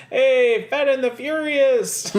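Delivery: high, loud, laughing shout; loud comic callout. Retold or imitated. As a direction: call it out high and excited. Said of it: "he's talking about".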